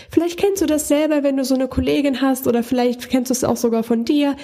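demonstrating an unnaturally high speaking pitch, a bit rushed; too-high voice demo. Shown as a demonstration. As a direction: put your voice up high to show how tiring it sounds. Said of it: "wenn Leute so reden".

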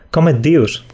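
"Com et dius?" said in Catalan, com with closed o; teaching the Catalan "Com et dius?"; Catalan phrase. Shown as a demonstration. Teacher models "Com et dius?" in Catalan. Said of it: "sería algo así como".

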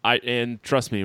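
usual speaking voice

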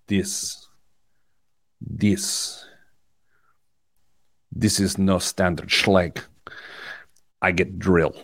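low, slow, heavily spaced words; disdainful locksmith. Retold or imitated. Host imitates the locksmith sizing up the lock, disdainful. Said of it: "with absolute disdain".

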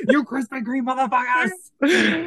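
high, very slow mocking robber voice; imitating robber voice. Mocking a friend's robber take, high and slow. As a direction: drag out the line like an impatient robber. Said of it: "you sound like you were gonna rob".

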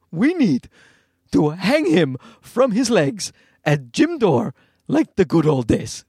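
threat in an imitated Egyptian accent; deliberate, comic Egyptian-accented menace. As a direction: do an Egyptian dad making a grave threat. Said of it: "my wife's dad's accent".

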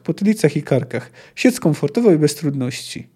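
expressive war-story reading with acted commands; story narration. A narrator's reading. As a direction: read the battle scene aloud with rising emphasis. Czyta powieść na głos. (ekspresyjna narracja powieści)

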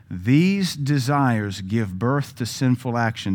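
slow, deliberate re-reading; scripture reading. Shown as a demonstration. Preacher rereading the verse for the congregation, slow. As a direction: read it again slowly, word by word. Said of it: "we might insert this".

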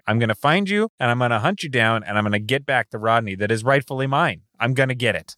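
rising, intense determination; passionate vow. Acted. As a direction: swear you'll hunt him down. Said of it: "I've seen you this passionate".

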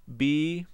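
"B" said as an isolated English letter name; name "B" distinctly for learners; letter-name demonstration. Shown as a demonstration. Teacher starts the consonant list for students, clearly pronounced letter. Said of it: "I'm going to pronounce the consonants".

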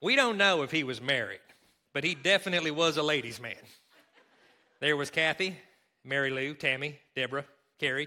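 hint of a Kentucky country accent. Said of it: "I'm gonna do it in my Kentucky accent".

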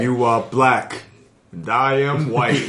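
slow, grave crooner-tinged delivery; a hint of crooning gravity; Fett voice. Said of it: "our Fett voice".

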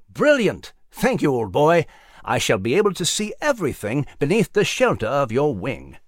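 mouse voice. Acted. Mouse thanking eagle.

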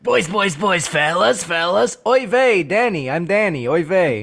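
lightly voiced Danny with oy vey; mock Danny, a hint of a put-on voice; a light impression of Danny. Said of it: "that's your impression of the boys cast".

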